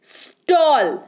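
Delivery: "स्टॉल" said alone in one push; one syllable. Shown as a demonstration. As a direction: say "स्टॉल" as a single isolated syllable. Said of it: "एक बार ही निकल जा रहा है".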